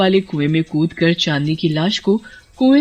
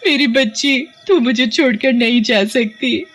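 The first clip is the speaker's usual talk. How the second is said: grieving cry; 5 semitones higher than usual. Acted. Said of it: "मर गई".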